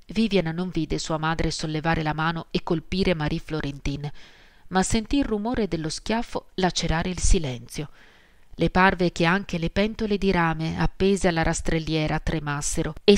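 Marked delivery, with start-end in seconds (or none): none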